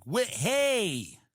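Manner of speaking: a touch of a gentle negotiator; mock gentle talk-down. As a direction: counselor pleading with the man holding fire. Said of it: "it's kind of interesting being like".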